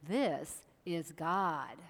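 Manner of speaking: a hint of a solemn God, drawn out; lightly voiced God. God introduces himself.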